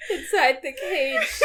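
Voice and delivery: slow, laughing mock witch croon; a light witchy imitation. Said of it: "Witch Brittany".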